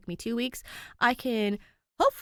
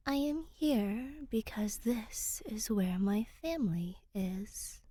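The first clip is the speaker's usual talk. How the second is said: 1 hushed reply in Ancient; 3 semitones higher, 4 dB quieter, slower than usual. Acted. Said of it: "Danny replies in Ancient".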